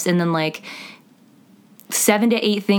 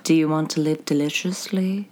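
Black Phillip quote; 3 semitones lower, 3 dB quieter than usual. Retold or imitated. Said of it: "the Vitch".

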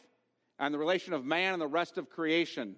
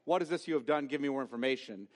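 neutral inquiry; 2 semitones lower, faster than usual. Shown as a demonstration. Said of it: "He's not asking, like".

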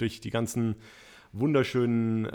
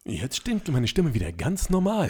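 Stimmenfilter; 2 semitones higher than usual. Acted. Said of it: "jetzt sag mal was".

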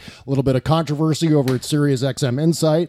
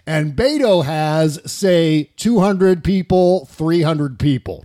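lightly voiced rally boaster, slow; Donald Trump; slower than usual. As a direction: draw out the figures as if weighing them. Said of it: "Trump said at his rally".

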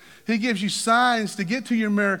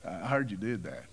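mock confrontation; 10 semitones lower, 5 dB quieter than usual. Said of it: "He didn't say".

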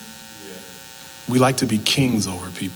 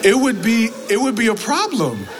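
laughing through words; 10 semitones higher than usual. Real, not acted. Laughing through retold quote.

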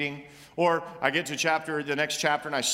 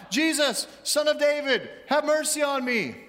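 shouting; 7 semitones higher than usual. Acted. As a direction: call out desperately to Jesus. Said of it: "he began to shout".

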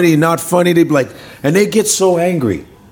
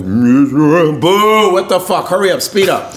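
mock heckling; 2 semitones higher, much slower than usual. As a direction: hurry the singers along from the audience. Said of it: "They should heckle operas".

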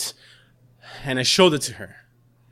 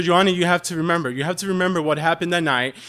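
urgent plea; faster than usual. Retold or imitated. Urging sister to remember.

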